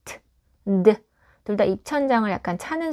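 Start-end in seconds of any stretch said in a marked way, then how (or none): 0.0-0.2 "트" as a bare puff of t; isolated voiceless t for "트"; unvoiced T sound. Shown as a demonstration. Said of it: "이 T 사운드나 D 사운드". 0.8-1.0 "드" hummed into a short d; isolated voiced d for "드"; voiced D sound. Shown as a demonstration. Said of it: "이 T 사운드나 D 사운드".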